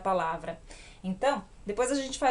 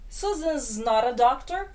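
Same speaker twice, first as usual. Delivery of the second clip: contracted form; slower than usual. Shown as a demonstration. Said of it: "primeira forma de contrair".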